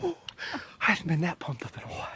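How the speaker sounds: excited. Real, not acted. Pumped up after the kill.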